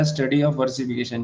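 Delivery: slow, word by word definition; slow dictation. Shown as a demonstration. Teacher tells children to note it, slow dictation. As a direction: let students write it down. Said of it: "note कर लेंगे पूरे बच्चे।".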